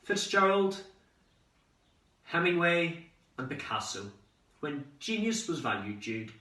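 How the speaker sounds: put-on dad telling old stories. Son imitating dad's old stories, grandly declaimed. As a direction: proclaim each great name with reverence. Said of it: "I could hear the old stories now".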